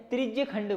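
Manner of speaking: teacher to class, showing the right way: "त्रिज्य खंड" with short final a, not "त्रिज्या"; "त्रिज्य" said clipped, no long aa at the end; correct pronunciation. Shown as a demonstration. Teacher correcting students' Hindi pronunciation: "त्रिज्य" without the long aa. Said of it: "त्रिज्या नहीं बोलते हैं वैसे".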